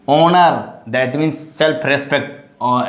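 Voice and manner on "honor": HONOR begun straight on the vowel; silent H. Shown as a demonstration. Teacher gives an example word, HONOR with silent H. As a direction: say HONOR as "onor". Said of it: "silent H".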